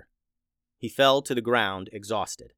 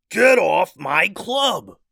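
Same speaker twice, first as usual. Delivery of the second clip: slow, loud, higher beast roar; beast yelling; 7 semitones higher, 8 dB louder, much slower than usual. A narrator's reading. Minotaur yelling at Addison, slow loud beast bellow. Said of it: "yelled the beast".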